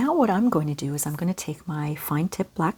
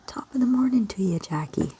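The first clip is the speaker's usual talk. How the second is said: playful teasing; 4 semitones higher than usual. Retold or imitated. Teasing her Irish friend Jackie, playful and quick. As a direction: Top of the morning to ya said quick and higher, teasing. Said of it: "just to bug her".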